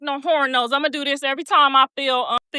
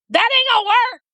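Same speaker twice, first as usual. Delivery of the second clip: high taunting devil voice, louder; mocking devil; 10 semitones higher, 4 dB louder than usual. Devil taunts her screams, mock high sneer. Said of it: "He was like".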